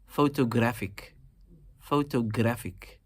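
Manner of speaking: slow "Photographic" with GRAPH stressed; stress on third syllable. Shown as a demonstration. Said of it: "You're emphasizing the third syllable".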